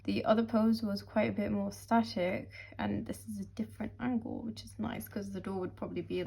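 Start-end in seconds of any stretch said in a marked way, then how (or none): 2.8-6.2 whispering. Real, not acted. Quiet aside about angle.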